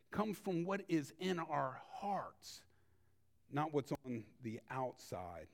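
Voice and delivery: hushed, intimate whisper. Real, not acted. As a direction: drop to a whisper for the point. Sermon point made softly.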